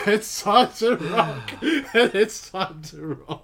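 laughing quote. Retold or imitated. Quoting movie line laughing.

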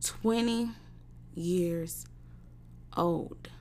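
spaced out, each word its own beat. Real, not acted. Slow emphatic pauses on age.

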